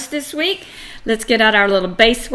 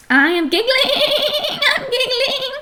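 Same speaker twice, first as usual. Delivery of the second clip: high-pitched, quivering mock giggle through the words; acted giggling; 13 semitones higher than usual. Shown as a demonstration. Teacher showing that -ing means now, pretend giggling in high voice. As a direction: put on a squeaky, tittering giggle as you speak. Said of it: "All right, so it's happening now".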